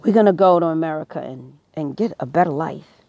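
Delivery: rough attempt at an Irish accent; a hint of Irish, not very convincing. Imitating Irish immigrants seeking a better life, loose Irish accent. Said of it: "I can't do a good Irish accent".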